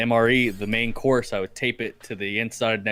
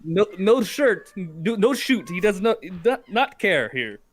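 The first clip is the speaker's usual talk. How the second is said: higher, slow, hammed-up broken English; mock insurgent reply; 8 semitones higher, 3 dB louder, slower than usual. Second insurgent replying about the shirtless soldier, slow mock voice. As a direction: slowly answer as a joking enemy fighter.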